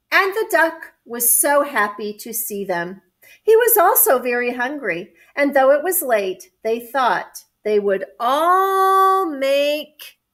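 measured picture-book reading; story narration. A narrator's reading. Adult reading a picture book to children, story narration. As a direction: read it clearly to young children.

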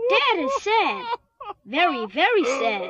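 droopy, mock-crying read of a sad line. Reading to kids about Dad, mock sobbing. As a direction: pretend to weep for poor Dad.

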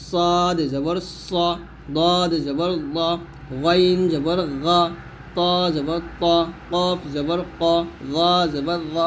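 "সদ জবর স" pattern, each letter heavy and rounded; thick letter spelling. Shown as a demonstration. Teacher drilling thick letters with zabar, slow and heavy. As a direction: spell from "সদ জবর স" on slowly, keeping vowels full. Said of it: "এরকমভাবে মোটা হরফগুলা".

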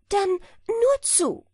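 high, loud, slow go-ahead; drawn out, sure of the trick; smug hedgehog. A narrator's reading. Hedgehog tells the hare to go ahead, slow and smug. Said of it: "erwiderte der Igel".

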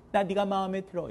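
softly intoned on a level note; a gentle, even sing-song confession; acted confession. Teacher showing girls how to approach a boy, softly intoned confession. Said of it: "이렇게".

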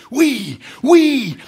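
two high, loud cheers; excited cries. A narrator's reading. Sailors rallying to the old captain, crying out. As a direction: shout assent like a fired-up crew. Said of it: "crièrent les harponneurs et les marins".

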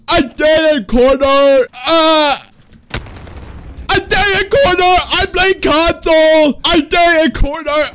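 mocking console kid. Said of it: "They just like".

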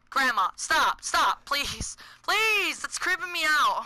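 rising panicky plea; creeped-out pleading. Real, not acted. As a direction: plead for it to stop, freaked out. Begging creepy figure to stop.

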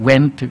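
went to with "to" shrunk to a tiny "tuh"; nearly vanished "to". Shown as a demonstration. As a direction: swallow the "to" after went. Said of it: "to มันเกือบจะหายไป".

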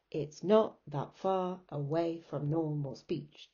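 lilting weak-strong beat on "not", "far", "way", "normal", "speech"; iambic rhythm. Shown as a demonstration. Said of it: "the emphasis is on not far way normal".

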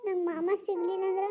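crying through the words; half-sobbed drunken plea; tearful drunk. Acted. Heartbroken drunk daughter weeping. (ಅಳುತ್ತಾ ಕುಡಿದ ಮಾತು)

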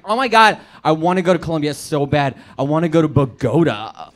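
a light hint of a gushing friend, loud start; mildly mock the eager tourist; gushing white girl. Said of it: "Jennifer, she's like".

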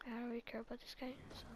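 quick unvoiced whisper; fast whisper. Real, not acted. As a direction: rush it out under your breath. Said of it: "I'm gonna be quiet for this moment".

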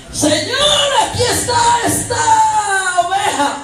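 very high, loud wailed prayer; hammed-up shout up to the Lord; mock pious cry. Preacher mimicking a woman presenting herself to God, mock pious shout.

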